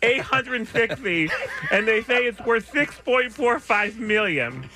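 talking through a mouth guard; news read with a mouthful of plastic. Real, not acted. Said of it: "I'm drowning".

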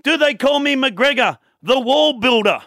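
put-on slow, high old Irish publican; old Irish barman boasting, drawn out; Irish accent. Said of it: "says in his thick Irish accent".

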